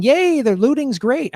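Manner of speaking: high, slow sarcastic cheer; mock cheer. Mocking what the Irish guy thought she meant. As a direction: sing it out like a fake fan of looting. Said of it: "he thought I was, like, saying".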